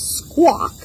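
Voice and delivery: high squawking word; parrot squawk. Shown as a demonstration. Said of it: "There is a parrot".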